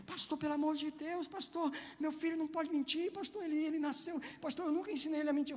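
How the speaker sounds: high, pleading voice of a panicked father; imitating a panicked pastor friend; desperate pleading father. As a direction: beg like a frantic dad.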